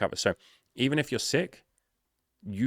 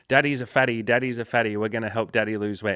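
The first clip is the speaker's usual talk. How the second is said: imitating the son; 2 semitones higher than usual. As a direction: tease daddy like a little boy. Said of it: "rubbing his dad's belly and going".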